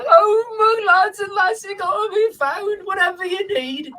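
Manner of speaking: high, teary, giddy vole voice; a drunk vole dancing a jig with joy; overjoyed vole. Acted. Does a small little jig.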